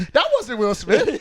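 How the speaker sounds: imitating someone stunned after the slap; mock shocked Jada voice. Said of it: "He was like".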